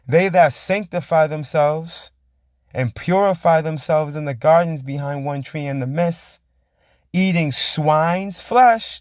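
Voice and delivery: very slow, drawn-out verse reading; preached scripture. Acted. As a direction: stretch each word like a proclamation. Reads scripture aloud.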